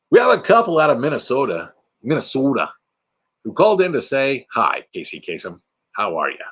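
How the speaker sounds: lightly voiced Morgan Freeman. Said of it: "Morgan Freeman, that's right".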